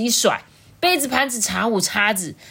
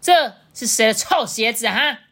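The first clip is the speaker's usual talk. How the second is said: loud, high angry dad; 6 semitones higher, 8 dB louder than usual. A narrator's reading. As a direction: demand to know who did it, cross and loud. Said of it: "这象爸一回家就生气了". (爸爸生气地大声质问)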